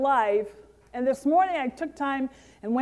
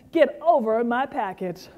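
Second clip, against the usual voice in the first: firm declaration; with conviction; 3 semitones lower than usual. Shown as a demonstration. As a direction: say it like you mean it. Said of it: "just say with conviction".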